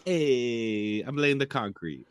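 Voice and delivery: hammed-up Brooklyn construction worker; mock Brooklyn accent. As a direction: play a Brooklyn laborer for laughs. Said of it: "you're from fucking Brooklyn now".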